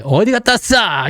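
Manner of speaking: high-pitched playful telling-off; mock scolding. Shown as a demonstration. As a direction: scold them like latecomers, in jest. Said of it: "혼나는 거죠".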